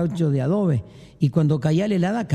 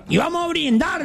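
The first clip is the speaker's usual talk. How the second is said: higher, cheerful toast; the gaucho toasting, cheerful and higher; hearty toast; 10 semitones higher than usual. Acted. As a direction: raise the glass happily.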